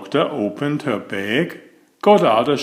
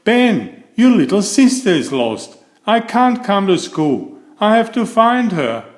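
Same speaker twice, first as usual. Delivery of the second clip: worried mother; 8 semitones higher than usual. A narrator's reading. Mother on the phone searching for her baby. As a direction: fret about a lost child. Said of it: "The mother said".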